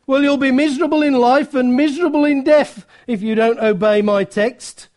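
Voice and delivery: quick, insistent preacher's warning; acted-out urgent admonition; stern pulpit warning. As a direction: press the young man to obey at once. Preacher warns and commands the young man.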